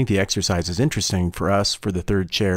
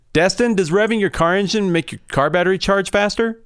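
bartender voice; 6 semitones higher, 3 dB louder than usual. Pretend. Plays bartender character.

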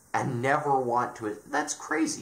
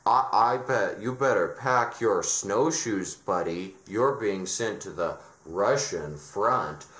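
mock German officer threat. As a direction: bark the threat like a pompous Nazi officer, half joking. Higher-up threatens sending to Russian front.

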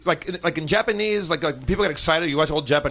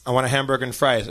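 put-on lower, careful American accent; practised American accent; 6 semitones lower, faster than usual. Fake Scot showing off his practised American accent, lower. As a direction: try out an American accent for her. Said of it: "let's hear your American accent".

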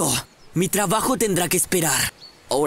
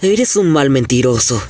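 angry accusation; 5 semitones lower, 5 dB louder than usual. Acted. Ninja accuses bald man.

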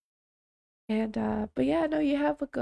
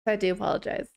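laughing apology; 2 semitones lower, faster than usual. Real, not acted. Laughing apology after rushing off.

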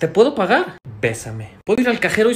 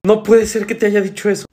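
shocked disbelief; 3 semitones higher, 6 dB louder than usual. Acted. Acted shock at bad news.

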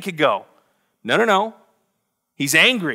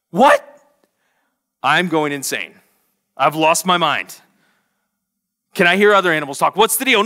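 mock panic. Preacher imagining his dog talking, mock panicked. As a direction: pretend you've lost your mind. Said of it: "my first thing would be like".

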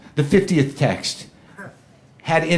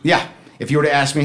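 normal talking voice

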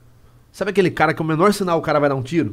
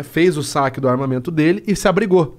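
normal talking voice

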